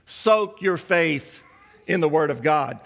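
each word of "Soak your faith" drawn out very slowly; "Soak your faith" stretched word by word for the point; slow emphatic. Acted. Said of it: "So what was he saying?".

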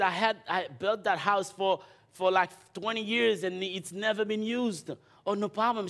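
imitating the eager owner, pitched well up; high woman's voice. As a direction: voice the lady high and keen. Woman voiced in retold story.

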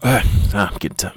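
tired, yawny voice; drowsy, just woke up; sleepy. Real, not acted. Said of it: "I'm getting yawny".

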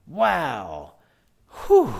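puffing out a tired breath; breathless whew. Real, not acted. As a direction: exhale hard, winded. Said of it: "I'm out of breath".

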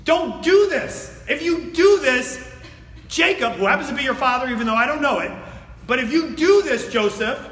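impassioned paraphrase of Judah's plea; pleading appeal. Retold or imitated. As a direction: beg him, voice lifted high. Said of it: "the appeal is".

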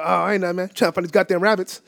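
quick, slurred throwaway mumble; mumbled reply. Retold or imitated. Answering a passing neighbour with nonsense, quick mumble. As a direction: toss it off fast in a mumble. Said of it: "mumbled literally gibberish".

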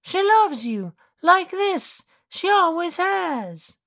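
the dog insists, pitched well up; talking dog. Acted.

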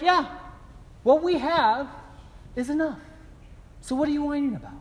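hammed-up wife scolding; teasing wife. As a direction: tease him like his wife. Wife voiced teasing husband.

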